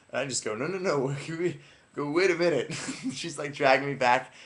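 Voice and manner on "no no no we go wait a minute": higher, louder mock objection; retold protest. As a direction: laughingly act out resisting. Retold protest while being pulled away.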